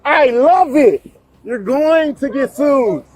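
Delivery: drawn-out mocking taunt; slow taunting. Real, not acted. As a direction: savor every word of the threat. Taunting officers slowly.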